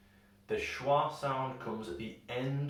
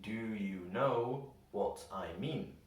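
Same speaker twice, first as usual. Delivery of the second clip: "Do you know what I mean" read word by word; slow reading; 2 semitones lower, 3 dB quieter than usual. Shown as a demonstration. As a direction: read it carefully with every word in full. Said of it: "if we read it slowly".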